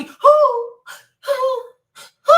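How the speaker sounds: high, wailing mock breakdown; a hammed-up whimpering collapse; mock crumbling whimper. Mocking a rapper breaking down in court, high mock wail.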